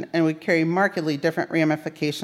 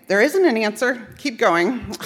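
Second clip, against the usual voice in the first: laughing lightly; 4 semitones higher than usual. Retold or imitated. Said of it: "And she'd laugh and say".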